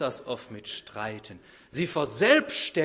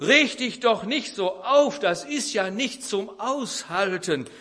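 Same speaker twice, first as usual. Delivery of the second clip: heated reply; 7 semitones higher, 6 dB louder than usual. Retold or imitated. Wife snapping back in quarrel.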